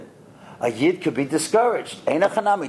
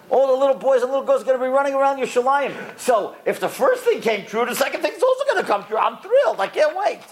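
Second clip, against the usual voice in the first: higher, fast and laughing, thrilled; laughing with joy; 7 semitones higher than usual. Retold or imitated. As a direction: bubble over with delighted laughter. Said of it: "And Rabbi Akiva was laughing".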